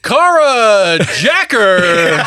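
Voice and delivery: laughing. Real, not acted.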